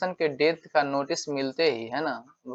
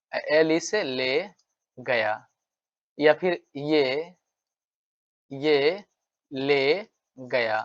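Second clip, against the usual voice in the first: slow spelled-out mnemonic; much slower than usual. Shown as a demonstration. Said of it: "इसको ऐसे याद रखते हैं".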